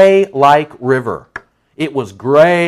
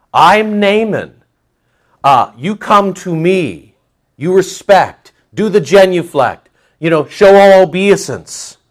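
haughty Naaman; 6 semitones higher, 5 dB louder than usual. Retold or imitated. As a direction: lord it over the prophet. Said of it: "allow me to interpret".

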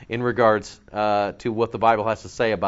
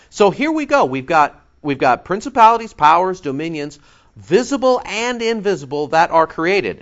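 building emphasis; 5 semitones higher, 4 dB louder than usual. Real, not acted. Preacher listing the powers.

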